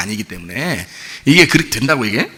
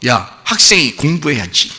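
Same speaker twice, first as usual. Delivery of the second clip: lecturing adult; slower than usual. Retold or imitated. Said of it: "이런다고요".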